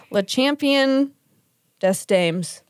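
slow, careful attempt at French accent. Shown as a demonstration. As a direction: sound out French title with shaky French accent. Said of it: "I cannot do a French, a French accent".

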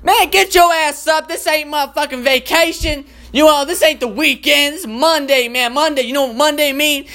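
sassy black woman alarm. Pretend. Black woman alarm clock yelling the sleeper out of bed. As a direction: chew him out, no mercy. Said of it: "black ladies just sitting there is like".

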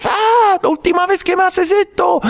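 high, shrill-pitched scream of a furious wife; wife yelling at husband, high furious scream. Acted. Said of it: "esta mujer gritando".

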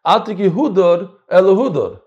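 Chassidic Ashkenazi reading, Hudor and Hudor with an oo. Shown as a demonstration. Teacher shows how a Chassid reads the verse, Chassidic pronunciation. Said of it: "if you're a Chassid".

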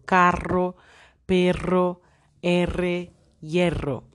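teacher modelling "carro" and "perro" with a strong trill; strong rolled R. Shown as a demonstration. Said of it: "se pronuncia de modo fuerte". (R vibrante fuerte en "carro", "perro", "hierro")

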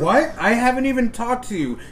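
mock confused. Confused reply, laughing.

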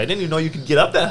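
high, fast laughing disbelief; amazed laughing. Retold or imitated. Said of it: "it was like".

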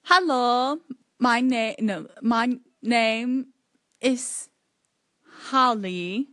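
halting, careful British accent. Shown as a demonstration. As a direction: speak like a phrasebook Brit. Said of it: "a sort of British".

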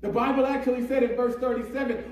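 fervent sermon delivery; impassioned preaching. Real, not acted. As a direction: preach it with building urgency. Preaches with rising force.

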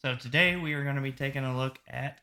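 put-on lightly Australian-accented names; a hint of Aussie on the film credits. Host reading the film credits with a hint of Australian accent. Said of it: "I tried to use a bit of an Australian accent there to pronounce those names".

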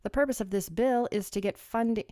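light put-on English accent reading the bill. Vlogger reading the bill to viewers in a mild English accent. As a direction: read it like a Brit, a touch hammy. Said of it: "I love doing an English accent".

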